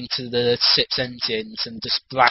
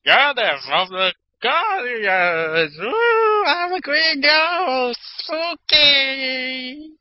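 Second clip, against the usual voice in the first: high, slow hammy ghost voice; spooky ghost voice; 12 semitones higher, 3 dB louder, much slower than usual. Retold or imitated. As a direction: wail it like a cartoon ghost. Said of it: "He's like".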